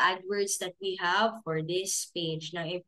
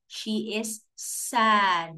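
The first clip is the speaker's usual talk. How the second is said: stretched slowly; much slower than usual. Shown as a demonstration. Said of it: "Another one".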